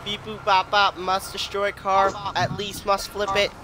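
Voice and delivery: beeping robot monotone; toy robot voice. Pretend. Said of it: "I am a robot".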